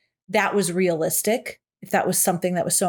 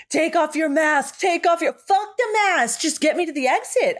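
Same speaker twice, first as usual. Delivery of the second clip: much higher, slowed, disbelieving; incredulous rant at the movie characters; 7 semitones higher than usual. Retold or imitated. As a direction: spell out how dumb the plan is.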